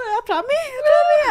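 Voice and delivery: high, loud giddy squeal; excited fan squeal. Retold or imitated. Fan squealing as star waves.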